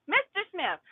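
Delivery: a hint of a smug judge; sarcastic judge. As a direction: sing the name out high like a condescending judge. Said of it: "Sarcastic people".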